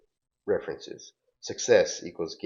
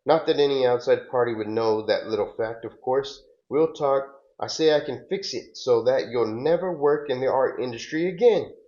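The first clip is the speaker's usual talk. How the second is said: louder and building, climbing high on the last word; acted anger; 5 semitones higher, 3 dB louder than usual. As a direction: threaten him, rising to a peak. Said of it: "and then she gets mad".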